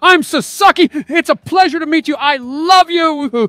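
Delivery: high put-on game voice; character voice. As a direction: voice the girl character. Voicing character in dating game.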